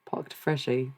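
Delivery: "packed" as "parked", mock Australian; Australian accent attempt. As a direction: amateurish imitation of an Australian. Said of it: "How do Australians say packed?".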